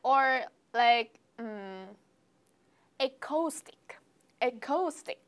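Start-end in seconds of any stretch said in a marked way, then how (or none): 3.0-5.2 "acoustic" as "eh-coh-stick", long o in the middle; naive misreading. Pretend. Student tries another beginner's version, naive misreading. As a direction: guess "acoustic" with an "oh" vowel, rising end. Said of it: "how would you pronounce this word?".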